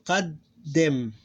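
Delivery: qaddim said as qad, held gap, dim; closed syllable demo. Shown as a demonstration. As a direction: hold the double d in qaddim. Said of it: "The whole thing becomes one syllable".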